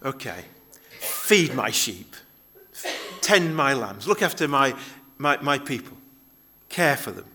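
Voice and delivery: gently spoken, unhurried reassurance; loving, compassionate. Acted. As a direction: entrust it lovingly, with pauses between phrases. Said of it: "very lovingly, very compassionately said to Peter".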